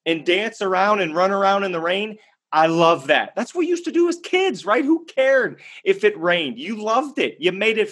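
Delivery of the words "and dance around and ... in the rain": excited. Retold or imitated. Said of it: "starts laughing and going".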